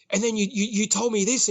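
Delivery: mock angry outburst; seething, retold. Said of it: "And he was seething".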